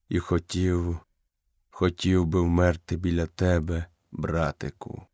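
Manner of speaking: fading leader speaking gently; lightly voiced old wolf, weak and low; dying old wolf.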